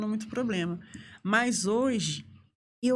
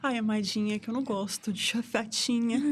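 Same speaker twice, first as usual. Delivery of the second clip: gentle coaxing; 3 semitones higher than usual. Retold or imitated. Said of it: "com jeitinho assim".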